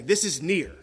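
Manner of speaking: playful puppet voice up close to the camera; Grover voice. Retold or imitated. Preacher voicing Grover for the congregation, light puppet voice. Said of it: "He'd say".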